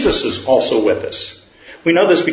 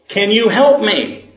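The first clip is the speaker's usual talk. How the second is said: higher, slow and begging; pleading man; 7 semitones higher than usual. Acted. Man on the cliff begs the Lord for help, high and slow. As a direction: drag the plea out.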